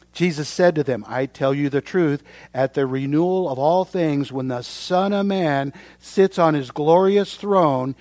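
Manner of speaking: loud, declaimed Bible reading; scripture reading. Acted. Preacher reads Jesus's promise to the congregation, declaimed. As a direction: proclaim the verse to the room.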